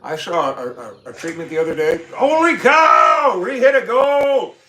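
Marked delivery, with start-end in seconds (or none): 2.2-4.6 slow, very high, very loud shouted celebration; excited shout. Real, not acted. Streamer celebrating the like goal with viewers, jubilant shout. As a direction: yell it out like you just won.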